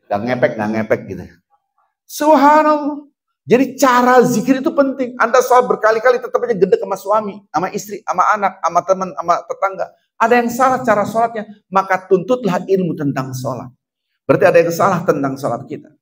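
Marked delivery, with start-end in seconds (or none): 2.1-3.1 high, loud cry of Subhanallah; exclaimed subhanallah. Real, not acted. Preacher to the congregation, a loud amazed Subhanallah. 3.5-15.9 high-pitched, insistent sermon delivery; preaching. Acted. Preacher warning the congregation about prayer, fervent preaching.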